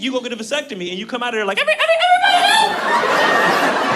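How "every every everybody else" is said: very high, loud falsetto singing; changed high voice. Retold or imitated. Mocking the rumor that vasectomy changes your voice, squeaky falsetto. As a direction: belt it in a comically squeaky falsetto. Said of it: "do your voice change?".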